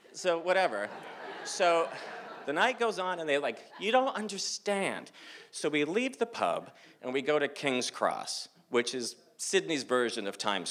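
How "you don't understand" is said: high-pitched pleading protest; exasperated insistence. Retold or imitated. Friends insist he grasp it.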